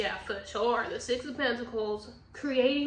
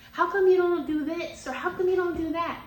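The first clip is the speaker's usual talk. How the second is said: louder, higher pointed questions; retold heated questioning, louder; confronting demand; 5 semitones higher, 6 dB louder than usual. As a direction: push him for answers, getting heated. Voicing herself confronting a partner.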